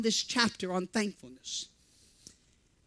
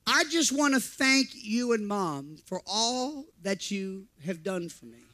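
put-on soft, slow, sincere child's thanks; tender son thanking; 4 semitones lower, 4 dB quieter, slower than usual. Son thanking his father, told softly and slowly. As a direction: gently quote the boy's heartfelt thanks. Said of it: "He said".

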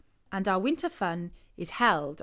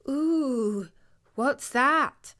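startled, higher nervous ooh; spooked boy; 5 semitones higher, much slower than usual. A narrator's reading. Boy points at a dark shape, startled and higher.

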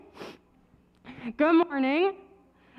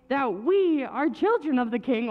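real voice giving out, with a laugh; cartoonish failing voice; 3 semitones lower than usual. Real, not acted. Children's leader amused by own voice, cartoonish failing voice. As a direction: struggle through as your voice cracks.

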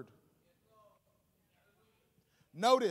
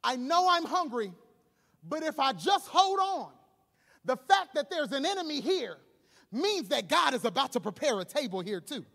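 Jesus; 3 semitones higher, 6 dB louder than usual. Retold or imitated. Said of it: "Jesus is probably saying to himself".

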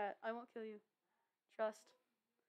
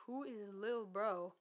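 voice changer; 2 semitones lower, 4 dB quieter, slower than usual. Real, not acted. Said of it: "is it 'cause of my voice changer?".

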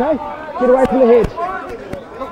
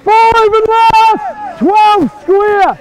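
shouted calls; 6 semitones higher, slower than usual. Real, not acted. Referee calling the last tackle.

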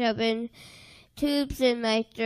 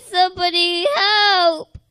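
tearful plea; 4 semitones higher, 4 dB louder than usual. Retold or imitated. Begging in dark tunnel.

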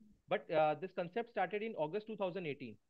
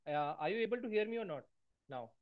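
barely audible; 2 semitones higher than usual. Real, not acted. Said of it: "voice is very low".

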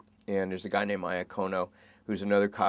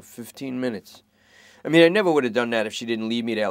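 fast, raised rambling worry; worried junkie; 3 dB louder than usual. Acted. Suspect fretting to detectives about his girlfriend, fast anxious. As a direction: babble it out anxiously.

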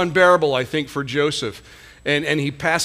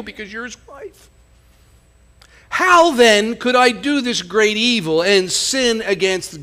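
pleading refusal; 4 semitones higher, 4 dB louder than usual. Acted. Joseph refuses master's wife.

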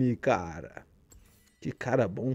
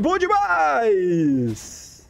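slow, drawn-out thrilled outburst; excited cheer; 3 semitones higher, much slower than usual. Real, not acted. Great shot in the game.

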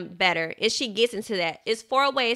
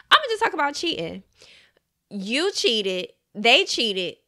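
hushed, fast, secretive whisper; whispering the touchy example to the viewers. Real, not acted. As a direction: lean in and whisper it like gossip.

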